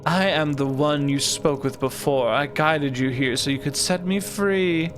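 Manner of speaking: lightly voiced, stately sphinx; measured, mysterious guardian reading; solemn sphinx guardian.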